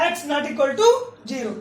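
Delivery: each word spaced out slowly; slow dictation. Shown as a demonstration. Teacher dictating the condition slowly to students. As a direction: read the condition out slowly for the class to copy.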